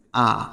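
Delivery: আ said short and weak as the article; clipped unstressed আ. Shown as a demonstration. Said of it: "তখন এটির উচ্চারণ হবে".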